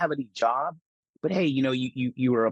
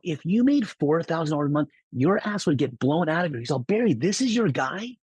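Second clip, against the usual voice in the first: higher, incredulous boss voice; mock boss scoff; 5 semitones higher than usual. Boss asking Barry if this is really his guy. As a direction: scoff at the kid through Barry.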